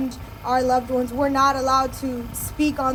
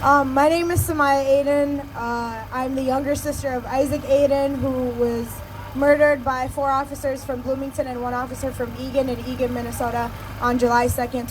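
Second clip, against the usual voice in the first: raspy, worn-out voice; hoarse voice. Real, not acted. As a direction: speak through a failing voice. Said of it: "sorry, I'm losing my voice".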